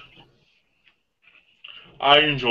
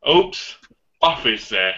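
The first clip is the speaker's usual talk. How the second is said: lightly voiced leprechaun; a hint of a leprechaun lilt; slower than usual. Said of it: "You sound like Leprechaun".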